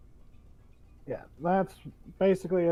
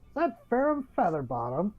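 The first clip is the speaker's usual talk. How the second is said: higher-pitched, lightly put-on bandmate voice; teasing old acquaintance; 4 semitones higher than usual. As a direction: call out a friendly jibe in character.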